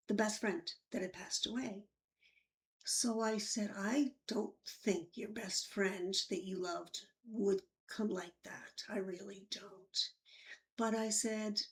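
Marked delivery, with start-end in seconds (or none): 3.8-10.1 reassuring. Retold or imitated. Comforting the frightened patient.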